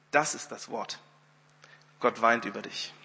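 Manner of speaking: soft, low, grave delivery; hushed solemn pronouncement. Retold or imitated. Weeping woman giving Wimber God's word, hushed. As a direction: say it quietly, leaving space between sentences.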